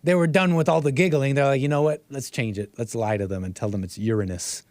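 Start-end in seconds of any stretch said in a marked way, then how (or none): 1.6-4.6 low, hushed aside; mock scheming. Host imitates fed-up educators agreeing to lie, low and conspiratorial. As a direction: lightly act out a quiet plot. Imagined teachers plotting a cover-up.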